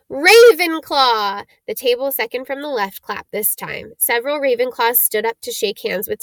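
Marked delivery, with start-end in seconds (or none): 0.1-1.5 loud, slow proclamation; drawn-out call. Acted. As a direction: stretch the house name out for the whole hall. Hat announces a house.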